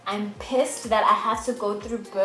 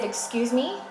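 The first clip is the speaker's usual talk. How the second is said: higher, rising disbelief; affronted, pitched up at the end; indignant question; 4 semitones higher than usual. Retold or imitated. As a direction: question it, taken aback. Indignant reply to refused epidural.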